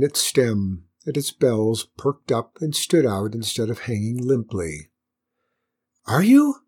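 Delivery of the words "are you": very high, louder flower stage whisper; tiny flower voice growing bolder. A narrator's reading. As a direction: ask in hopeful, squeaky surprise. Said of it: "in a louder whisper".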